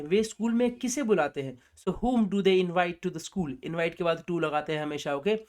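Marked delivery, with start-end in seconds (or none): 1.8-3.5 slow model sentence. Shown as a demonstration. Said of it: "अगला sentence में बात करते हैं".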